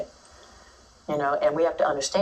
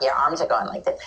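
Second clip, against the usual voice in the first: the wrong way. Shown as a demonstration. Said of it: "It's not".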